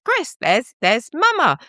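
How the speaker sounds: lightly cheery, singsong greetings; chatty greeting. Retold or imitated. Imitating chatty hellos on Discord. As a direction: greet each friend brightly. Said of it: "a chatty".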